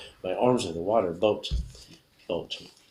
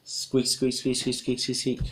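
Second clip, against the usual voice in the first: high, pretend hamster squeaking; mouse squeak; 4 semitones higher, slower than usual. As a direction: squeak in a string like a tiny rodent.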